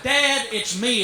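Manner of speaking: reveal. Retold or imitated. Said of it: "I finally went".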